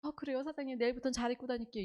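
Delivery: quick, obliging brush-off; acted agreeable front, said lightly and fast; outwardly smiling reply. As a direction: politely agree while hiding irritation. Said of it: "겉으로는 웃어요".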